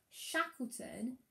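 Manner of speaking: "Shackleton saved his crew" drawn out very slowly; slow reading. Shown as a demonstration. Teacher reading her final sentence slowly to the class. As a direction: read it at dictation speed for the children. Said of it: "So I'll read you my sentence".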